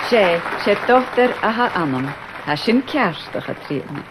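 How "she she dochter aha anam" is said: SHE stressed at the start of "she dochter aha anam"; emphatic she. Shown as a demonstration. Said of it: "It's used for emphasis".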